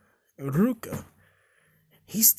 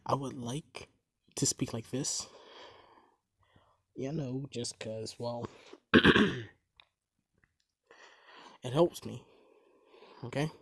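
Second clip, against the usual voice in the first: whispering; 2 semitones lower than usual. Real, not acted. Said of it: "I have to whisper".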